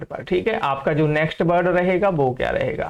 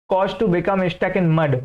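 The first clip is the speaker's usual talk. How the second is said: very slow reading; much slower than usual. Shown as a demonstration. Teacher reading the example sentence to students, very slow. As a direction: read the example slowly, word by word. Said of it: "teacher reads definition".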